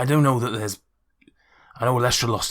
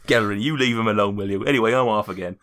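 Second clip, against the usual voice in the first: Harriet; 4 dB louder than usual. Acted. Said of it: "Harriet walks into the room".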